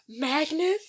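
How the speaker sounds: high, trembling call of a name; frightened cry. Retold or imitated. Miss Trunchbull sees her dead victim's portrait, high scared cry. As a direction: call out to a ghost in fear. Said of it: "freaking out".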